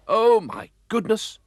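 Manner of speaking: high, loud startled cry; exclaiming. Acted. Mister Oldcastle shocked as Gumdrop's engine bangs, high startled exclaim. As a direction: gasp as the engine explodes. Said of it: "exclaimed Mister Oldcastle".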